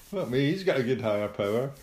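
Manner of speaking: high strained grin voice; chuckling through a frozen smile; squeaky ventriloquist dummy. Pretend. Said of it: "They're like".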